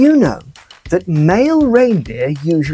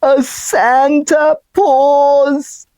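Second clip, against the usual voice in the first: punchline delivery; 7 semitones higher, much slower than usual. Acted. Punchline of a Christmas joke.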